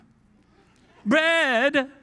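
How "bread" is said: put-on high, loud voice with Italian accent. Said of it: "I hear it in Italian".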